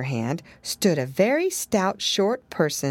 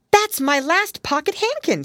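put-on little girl; 11 semitones higher, 4 dB louder than usual. A narrator's reading. Lucy voiced.

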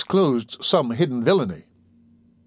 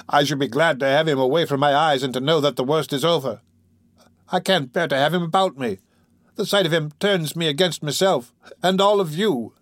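higher, mildly agitated; defiant outburst; 3 semitones higher than usual. Acted. Girl confessing her revulsion to Fagin, defiant and agitated. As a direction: let the pitch climb toward the accusation. Nancy's distraught outburst, meeting his gaze.

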